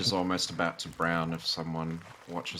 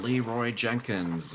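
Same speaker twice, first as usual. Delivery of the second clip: drawn-out, slow meme battle cry, slightly higher; exclaiming Leroy Jenkins; 4 semitones higher, slower than usual. Retold or imitated. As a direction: stretch the name out like a mock charge yell.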